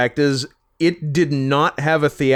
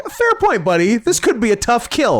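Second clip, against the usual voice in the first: very high-pitched comic concession; mock agreement; 8 semitones higher than usual. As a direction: squeak out an amused mock agreement. Mock reaction to film's smart guy.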